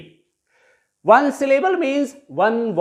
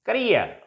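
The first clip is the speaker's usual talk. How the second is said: "career" with short ca-, stressed REER; caREER, weight on the last syllable; 4 dB quieter than usual. Shown as a demonstration. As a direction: lean on the end of "career". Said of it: "stress will take place on the last syllable".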